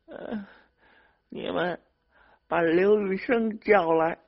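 put-on high-pitched, groaning old woman; groaning old mother. A narrator's reading. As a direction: groan it out, then push the demand high and loud. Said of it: "她呻吟着说".

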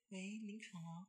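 deep, quiet put-on man's voice; low fake male voice. Girl faking a man's voice on a prank call, low and quiet. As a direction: drop the voice low to pass as a guy on the phone. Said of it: "很低声说 ... 装这种声音".

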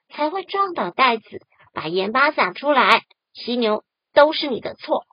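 响亮地争辩，越说越冲; 不服地顶回去，最后点名指责; 不服气. Acted. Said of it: "很不服气地说". (不服气地嚷)

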